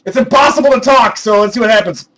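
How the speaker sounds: muffled inside a helmet. Real, not acted. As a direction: talk through a helmet. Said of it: "I can't talk with the Boba Fett helmet on".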